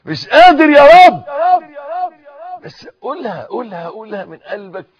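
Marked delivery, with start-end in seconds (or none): 0.1-1.2 loud, high, laughing plea; laughing cry. Real, not acted. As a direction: let the laugh break into the plea. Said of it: "laughs while saying it". (ضاحكًا بصوت عالٍ)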